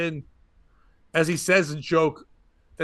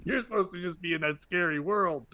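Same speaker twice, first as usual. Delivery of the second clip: laughing; 3 dB louder than usual. Pretend. Imagined reaction, laughing through.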